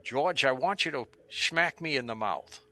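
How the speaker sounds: a light hint of Doctor Morgus's talk; lightly voiced mad doctor making an odd request; imitating Doctor Morgus. Morgus asks George to hit him, in a lightly imitated voice. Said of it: "this is how he talked".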